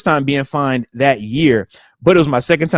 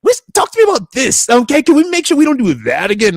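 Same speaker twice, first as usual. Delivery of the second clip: wife's sit-down; 4 semitones higher, 4 dB louder than usual. Retold or imitated. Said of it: "wifey had this, she had a nice sit down".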